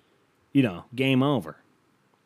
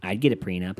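lower, lightly snooty imitation; mock pretentious; 4 semitones lower than usual. Partner claiming she would get a prenup, mock pretentious. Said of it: "she's all pretentious about it".

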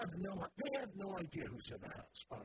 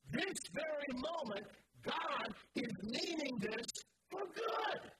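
rising declaration; 4 semitones higher than usual. Pretend. Preacher voicing the believer's defiance to pain, building to a high cry. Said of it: "And we say to it".

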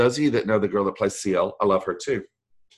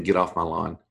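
put-on lower, grumbly old-timer barking at kids; grumpy old man; 5 semitones lower than usual. Voice actor mocking himself as a grumpy old man. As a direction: play the cranky old neighbour shooing kids away. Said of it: "Here's where I sound like old Ben".

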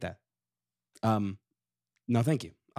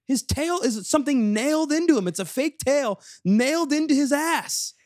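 mock outrage; 11 semitones higher than usual. Real, not acted. Mock outrage about Eeyore's tail.

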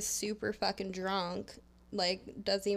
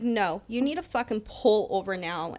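a firm, loud order to pull over; angry demand; 4 dB louder than usual. Retold or imitated. Woman orders the strange driver to pull over, loud and angry. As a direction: tell the driver off, raising your voice. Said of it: "and I was like".

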